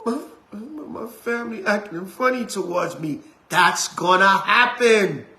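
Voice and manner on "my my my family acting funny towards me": a hammed-up crying whine; mock whimper. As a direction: fake sob, imitating weak members. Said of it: "Some of y'all".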